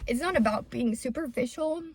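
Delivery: quiet and choked with tears; tearful. Real, not acted. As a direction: push the words out through tears. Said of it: "Stop, I'm not gonna cry".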